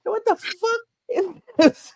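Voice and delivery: high, shrill-free mock holler at Scarlett; hollering after Miss Scarlett, hammed up; mock hollering maid. Mocking Hattie McDaniel hollering.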